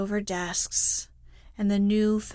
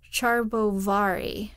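shouted name. A narrator's reading. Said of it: "shouted at the top of his voice".

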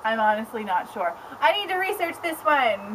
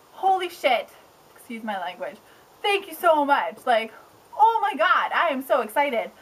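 excited gush. Retold or imitated. Thanking the publisher over the phone, gushing excitedly. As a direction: squeal it out in delight. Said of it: "excited rant".

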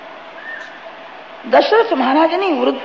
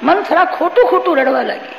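laughing; 4 semitones higher than usual. Real, not acted. Laughs telling of fake crying.

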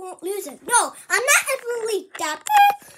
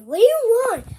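annoyed shout; 3 semitones higher, 10 dB louder than usual. Acted. Child snaps at mother.

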